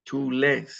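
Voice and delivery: Tú lees with weight on "le"; second-last syllable stressed. Shown as a demonstration. Teacher demonstrating emphasis for students, stressing the "le" in lees. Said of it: "it goes on the second last syllable".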